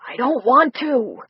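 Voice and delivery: slow, wheezy reluctance; wheezed. Acted. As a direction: push it out on a short breath, slowly. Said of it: "Art wheezed".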